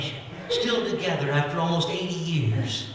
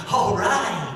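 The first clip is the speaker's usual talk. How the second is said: drawn-out, mock-excited cheer; excited little guy; 3 semitones higher than usual. Little guy hired as a bouncer, excited. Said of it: "The little guy got all excited".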